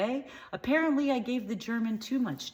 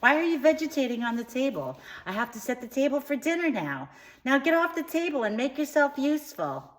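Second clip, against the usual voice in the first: high-pitched, hammed-up scolding; mock motherly screech, pitched way up; screaming mother; 7 semitones higher, 3 dB louder than usual. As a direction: scold your child as a shrieking mother. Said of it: "My mother screamed".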